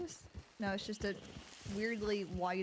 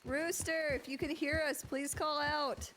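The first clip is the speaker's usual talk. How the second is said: search party calling; 3 semitones higher than usual. Acted.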